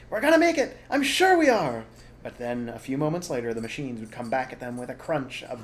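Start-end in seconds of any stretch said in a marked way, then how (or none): 0.1-1.9 high, loud hopeful fox father; excited high reassurance; hopeful cry. Acted. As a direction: cheer them on with hope. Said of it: "Mister Fox would say".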